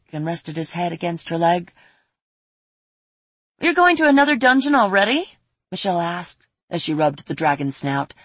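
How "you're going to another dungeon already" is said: put-on disappointed girl.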